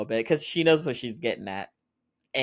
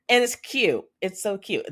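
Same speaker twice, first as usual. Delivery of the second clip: excited gushing; 9 semitones higher than usual. Real, not acted. Fangirling over a sweet moment.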